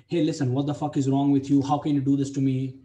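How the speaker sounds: heated reproach, pushing harder as it goes; furious complaint to a girl who keeps cancelling; pissed-off rant. Retold or imitated. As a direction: vent at her like you've had enough. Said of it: "I again got pissed off and I'm like".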